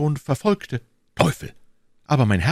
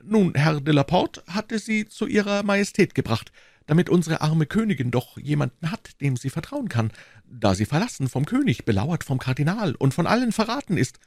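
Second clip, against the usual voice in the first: lightly raised, fussy shopkeeper; a nervous little merchant confiding; a touch higher, eager tradesman explaining; Bonacieux voice; 4 semitones higher than usual. Acted.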